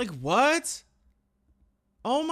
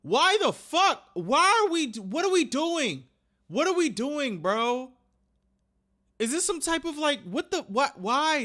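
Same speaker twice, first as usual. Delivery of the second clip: heated, exasperated outburst; indignant, punching the key words; genuinely mad; 3 semitones higher than usual. Real, not acted. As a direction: rant in real anger and disbelief. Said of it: "This shit is making me mad".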